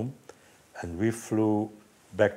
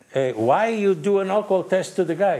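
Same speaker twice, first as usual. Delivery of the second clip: higher, louder protest at the officer; indignant demand; 9 semitones higher, 6 dB louder than usual. Retold or imitated. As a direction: push back hard at the policeman. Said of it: "I said".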